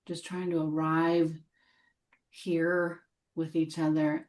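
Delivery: gentle meditation guide with long pauses; guided meditation. Real, not acted. Teacher helping the group arrive together, guided meditation voice. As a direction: lead them into settling, unhurried between phrases.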